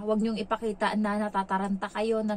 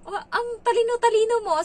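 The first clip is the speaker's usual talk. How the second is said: much higher and louder, gushing, a mock impression of the boss; delighted praise; 13 semitones higher, 7 dB louder than usual. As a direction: gush over how clever she is in a squeaky put-on voice. Employer praising the maid.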